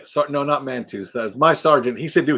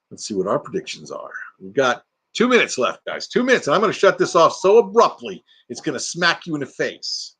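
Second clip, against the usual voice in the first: normal talking voice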